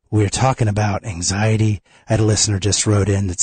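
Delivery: stuffy nose from a cold; congested voice. Real, not acted. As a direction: talk through a head cold. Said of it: "I'm a little congested here".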